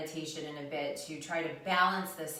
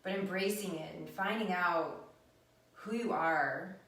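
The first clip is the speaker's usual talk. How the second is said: guided meditation. Acted. Leads a meditation.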